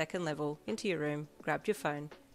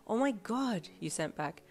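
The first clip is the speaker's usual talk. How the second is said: much higher, gushing fan; excited; 7 semitones higher than usual. A narrator's reading. Boy texting Jiro about the song he loves, excited. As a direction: squeal over the favourite song.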